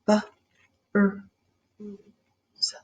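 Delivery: B, r, u, s with pauses; four sounds of bruise apart. Shown as a demonstration. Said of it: "Say it sound by sound".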